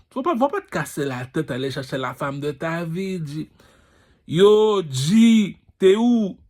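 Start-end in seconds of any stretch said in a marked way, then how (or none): 4.3-6.4 calling out. Acted. Calling out to a friend.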